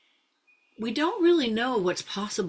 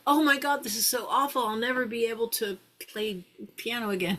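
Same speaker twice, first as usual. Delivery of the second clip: silly mock despair; 4 semitones higher than usual. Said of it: "Okay, I'm being a little silly".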